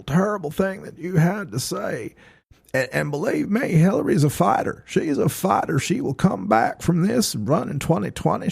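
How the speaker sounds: Bill Clinton impression. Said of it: "you take your Bill Clinton".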